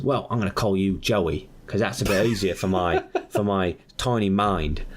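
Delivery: put-on Aussie voice; Australian accent. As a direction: play a simple-minded Australian. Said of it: "he's clearly Australian".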